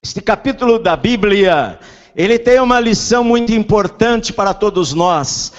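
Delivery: high, loud, slow preaching. Acted. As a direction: preach it with full force. Preaching at full force.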